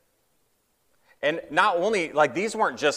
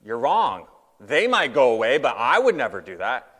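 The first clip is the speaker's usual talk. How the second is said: loud, indignant insistence; self-righteous; 5 dB louder than usual. Pretend. Preacher voicing a self-righteous disciple, louder and indignant. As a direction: puff up and insist you'd never fail. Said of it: "I'd probably be self-righteous".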